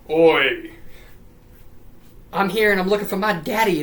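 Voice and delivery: hammed-up British "oi"; mock British accent. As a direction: play a mock-British son calling out. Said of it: "He's not actually British".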